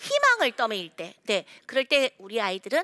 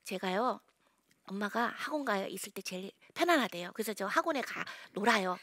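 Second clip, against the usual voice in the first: whisper; 3 semitones lower, 6 dB quieter than usual. Retold or imitated. Child's secret confided to audience.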